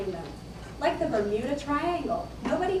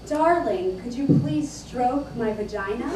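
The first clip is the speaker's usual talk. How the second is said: louder, mock-proper lover's request; politically correct lover; 4 dB louder than usual. Lover to partner during sex, mock politically correct. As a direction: ask it like a carefully correct lover. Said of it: "trying to be politically correct".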